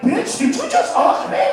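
outraged snap. Retold or imitated. Offended retort.

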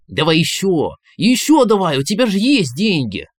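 high, loud, eager pleading; trembling with gambling fever. Acted. Inner voice begs Valentin to keep playing, feverish and shrill. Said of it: "Голос дрожал от азарта".

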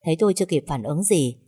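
ordinary delivery, nothing marked

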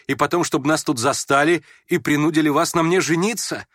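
hurt pride spilling over into reproach; offended young woman. Acted. Young woman accusing the prince on the bench, high and indignant.

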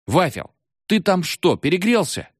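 yelling again. A narrator's reading. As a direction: holler it at him. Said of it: "опять заорал Валька". (снова орёт)

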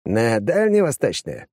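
joking. Acted. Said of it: "пошутил сосед".

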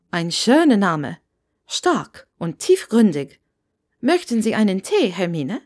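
a hint of an eager Scottish landlady; chatty landlady voice. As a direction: talk on and on at the new guest. Landlady praises the name.

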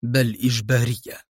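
calm, understated answer. A narrator's reading. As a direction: say it evenly, unbothered. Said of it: "أجابه أدهم في هدوء".

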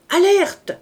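high, loud alarm call; cried alarm. A narrator's reading. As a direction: shout the warning from the barricade. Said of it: "cria Marius du haut de la barricade".

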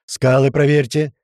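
loud, slow, stretched-out command; shouted order. Acted. Tuman sends Vanya to the rocks, shouting. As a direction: call it far across the water. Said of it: "прокричал ему Туман".

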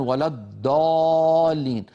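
slow, deliberate recitation with a heavy emphatic d for ض; non-Arab reciter. Retold or imitated. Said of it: "من العجم من يفخمها ... فيقول مثلًا".

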